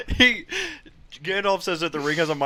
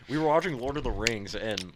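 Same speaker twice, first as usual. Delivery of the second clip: chewing while talking; mouth full. Real, not acted. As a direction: speak through a mouthful. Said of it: "I actually have a mouthful of food".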